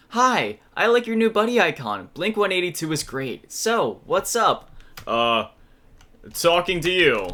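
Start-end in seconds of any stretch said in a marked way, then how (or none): 0.1-4.7 put-on, high-pitched, easy-on-the-ear, pleasant voice. Giving a voice to a chat character as she types messages: high-pitched Emily voice. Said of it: "something that's high-pitched but not annoying".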